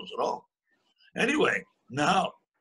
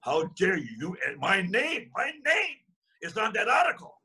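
retold yell; 5 semitones higher than usual. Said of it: "And he yelled at him".

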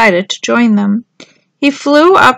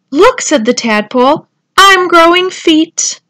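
little tadpole voice; 6 semitones higher, 4 dB louder than usual. A narrator's reading.

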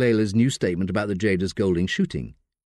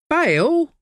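high, shocked echo; disbelieving squeak; incredulous; 4 dB louder than usual. Acted. Layla stunned at the word bail.

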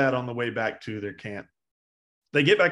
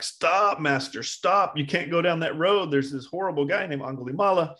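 raised, emphatic mock plea; urgent warning; 5 semitones higher than usual. Villagers begging their master to stay off the road, urgent. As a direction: act out alarmed villagers pleading. Villagers warn the Buddha, acted.

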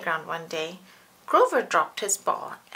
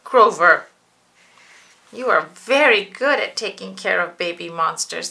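louder praising mother; proud mommy; 2 semitones lower, 8 dB louder than usual. Acted. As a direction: praise your little monster.

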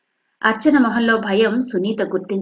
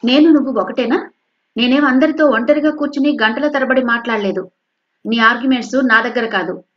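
angry mother; 3 semitones higher, 4 dB louder than usual. Acted. Mother argues with daughter.

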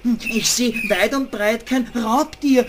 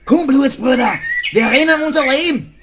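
loud, fast, higher call to run; urgent flight; 4 semitones higher, 4 dB louder than usual. Acted. Rat urges rabbit to run for their lives. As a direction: urge your friend to flee. Fleeing in panic.

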